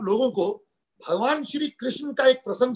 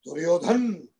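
dramatic poem recitation. Acted. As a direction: declaim the verse in measured, emphatic phrases.

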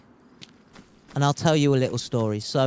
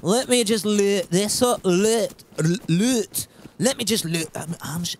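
struggling attempt at a Scottish accent; 3 semitones higher than usual. Shown as a demonstration. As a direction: practise the vowels in a clumsy Scottish accent. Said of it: "such a hard accent to do".

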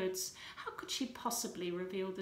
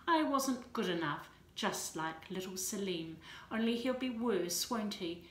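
firing back. Acted. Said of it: "She fired at him".

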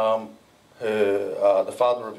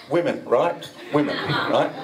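laughing aside to the audience; amused quip with laughter in it; joking aside; 3 semitones higher than usual. Real, not acted. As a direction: toss it out through a chuckle.

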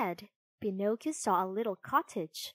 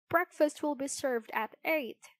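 higher-pitched courteous dog voice; polite poodle; 6 semitones higher than usual. A narrator's reading. Poodle to guest Pinocchio, politely high. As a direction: announce it like a well-mannered servant. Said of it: "a very polite poodle".

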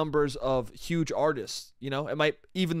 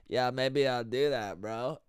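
low, slow, quiet mumble of a guy; soft, lazy low-pitched impersonation; impression of a rapper; 5 semitones lower, 5 dB quieter, slower than usual. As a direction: play it low and laid-back, drawn out. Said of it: "that's my rapper"

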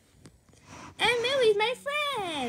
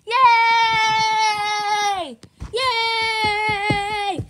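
excited cheering; 3 semitones higher, 7 dB louder, much slower than usual. Acted. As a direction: cheer it out, triumphant. Celebrating after beating bad guys.

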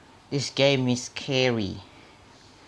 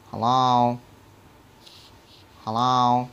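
calling out; 6 dB louder, slower than usual. Real, not acted. Calling out in empty game house.

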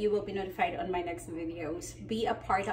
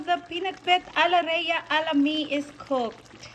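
excited; 8 semitones higher, 5 dB louder than usual. Real, not acted. Proud dish announcement.

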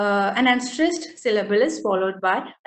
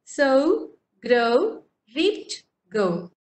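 Sow, grow, reaped, go, each said apart and stressed; teacher marking the end rhymes; rhyme words spelled out; much slower than usual. Shown as a demonstration. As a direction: tick off each rhyme word slowly. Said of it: "I'll be saying for you once again".

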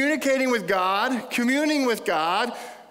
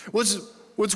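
ordinary talk

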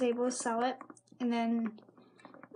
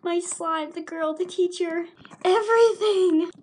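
higher lament building to a loud last word; mock dismay; 5 semitones higher, 6 dB louder, slower than usual. Slime's owner watching hair being cut, building mock-dismayed lament. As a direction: wail each item, growing louder.

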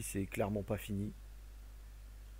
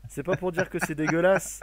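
louder and slower, insisting; insistent, louder; 6 semitones higher, 8 dB louder than usual. Real, not acted. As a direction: push through the interruptions, louder. Insisting over friend's interruptions.

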